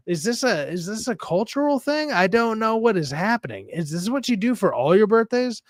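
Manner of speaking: high-pitched, mock bewilderment; baffled questioning. Baffled questions at lavish party.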